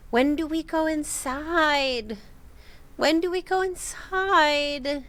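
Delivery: lightly voiced robot imitating a child; robot mimicking child. Recreating the uncanny child voice, slow and even. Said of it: "Very unusual intonation".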